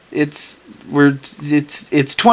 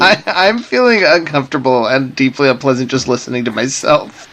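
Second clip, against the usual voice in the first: lips pursed. Real, not acted. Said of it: "through pursed lips".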